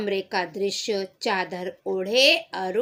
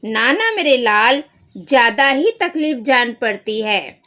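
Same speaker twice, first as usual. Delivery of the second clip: louder, anxious mother; worried mother; 2 semitones higher, 6 dB louder than usual. Acted. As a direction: fuss over the sick son. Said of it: "माताजी". (घबराई हुई माँ)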